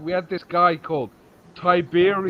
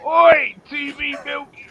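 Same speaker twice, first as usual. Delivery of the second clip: slow, louder schoolboy heckle; mock shout; 6 semitones higher, 6 dB louder, slower than usual. Kids heckling the teacher, retold as a loud slow shout. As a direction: call the nickname across the yard. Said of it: "we even used to shout it to him".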